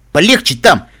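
loud, startled objection; blurted protest. Acted. Calamity objects to the ghoul's volume, blurting. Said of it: "вырвалось у Каламити".

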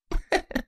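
soft breathy embarrassed laugh; sheepish chuckle. Acted. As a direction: laugh it off awkwardly. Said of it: "chuckled sheepishly".

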